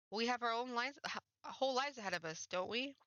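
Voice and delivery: hopeful plea. Acted.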